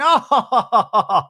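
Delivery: loud, high mock cackle; imitated laugh. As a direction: fake her laugh in repeated loud bursts. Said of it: "Alexis is, uh, laughing".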